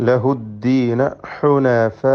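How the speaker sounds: slow, with a long held final aa in ഹുനഫാ; obligatory madd. Shown as a demonstration. Teacher shows students the required lengthening, ഹുനഫാ held long. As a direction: stretch the last vowel of ഹുനഫാ well out. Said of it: "മദ് മുത്തസിൽ വാജിബ്".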